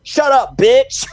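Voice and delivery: high, loud laughing retort; mock The Rock snapping. Friend imitates The Rock shutting down Stephanie McMahon, laughing shout. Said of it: "and he's".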